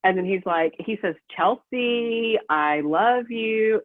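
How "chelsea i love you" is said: slow, sing-song mock of an ex's fake I love you. Mimicking her ex singing Chelsea I love you on speakerphone, slow fake sing-song. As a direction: stretch it out in a fake sing-song, like a cheap serenade. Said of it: "But he said it like a singing, super fake".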